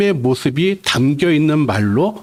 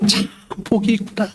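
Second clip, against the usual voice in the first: exclamation of wonder; 4 semitones higher than usual. Shown as a demonstration. Preacher demonstrating the Beatitude as a cry of wonder. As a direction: linger on 참 as if truly moved. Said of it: "이렇게 읽으셔야 된다는 것입니다".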